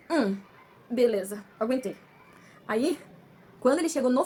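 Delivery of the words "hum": short mock grunt of pain; brief "hm" as if wincing; imitated pain grunt. Patient showing viewers how the first needle felt, imitated pain grunt. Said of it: "foi uma dor assim".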